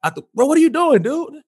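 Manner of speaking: very high, panicked retold yell; imitating his own frantic protest; freaking out. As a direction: squeal it in mock alarm. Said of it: "I'm, like, freaking out".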